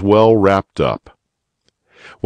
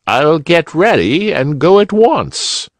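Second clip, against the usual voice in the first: cheerful, lightly higher bunny uncle; eager old gentleman; old rabbit gentleman; 10 semitones higher, 3 dB louder than usual. A narrator's reading. Uncle Wiggily voice.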